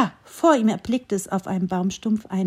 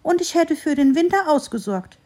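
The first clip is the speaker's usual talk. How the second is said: higher, louder squirrel thinking aloud; musing squirrel; 6 semitones higher, 4 dB louder than usual. A narrator's reading. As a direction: weigh the idea in a small squirrel voice. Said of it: "überlegte das Eichhörnchen". (überlegendes Eichhörnchen, höher und lauter)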